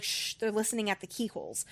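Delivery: softly hushed, urgent warning. Retold or imitated. Nell hushing Gemma because they're listening, softly urgent. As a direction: hush her, they might overhear. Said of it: "Nell begins hushing Gemma".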